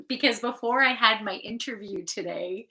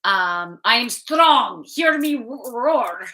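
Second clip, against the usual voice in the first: put-on Polish accent; 4 dB louder than usual. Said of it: "I go into my Polish roots and, and speak in my accent".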